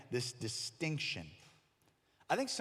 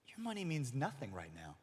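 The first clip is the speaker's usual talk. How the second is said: smirking; 5 dB quieter than usual. Retold or imitated. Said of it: "kind of smirking and goes".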